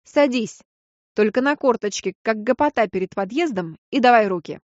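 loud barked orders; commanding. Acted. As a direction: order her to sit, loud. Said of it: "скомандовал".

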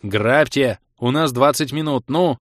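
loud urgent command to rob; urging the gang to loot, loud. Acted. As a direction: push the volume up, hurry them. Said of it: "Пришлось повысить громкость".

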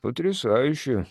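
slow sullen mumble; grudging, gloomy praise; gloomy grumble. Acted. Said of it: "хмуро пробурчал я".

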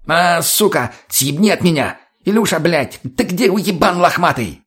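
high, frantic cursing; panicked yelling. A narrator's reading. Mutny calls his mutant as Tonya closes in, frantic. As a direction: curse and call for rescue. Wounded addict fends off armed attacker.

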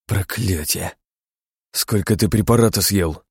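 plain reading voice

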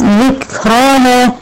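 slow ذكراها with an airy kaf; breathy kaf. Shown as a demonstration. Teacher showing the whispered kaf. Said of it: "والكاف فيها الهمس".

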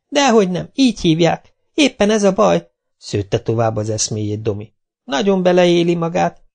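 put-on high, lively boy's voice; high boy fibbing eagerly. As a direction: spin the story with relish. Domi spinning his tale.

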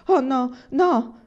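loud, high, drawn-out protest; crying out. A narrator's reading. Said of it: "gridò Laura".

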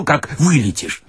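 ordinary delivery

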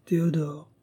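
wife begging her husband a second time; pleading again. Acted. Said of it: "une voix mourante".

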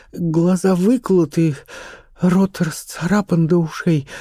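put-on young actress, frightened. A narrator's reading. Charlotte tells of the programme.

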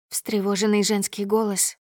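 ordinary delivery

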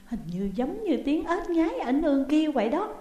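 high-pitched cry of discovery; startled exclamation. A narrator's reading. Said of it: "Phượng nghe kỹ rồi la lên". (la lên ngạc nhiên)

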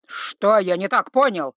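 loud, slow roar of offense; slow loud troll growl. Acted. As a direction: roar the question down at her. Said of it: "взревел тролль".

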